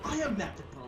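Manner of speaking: high British lad reply; mock British accent. Retelling a lad's reply, mock British accent. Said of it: "And he go".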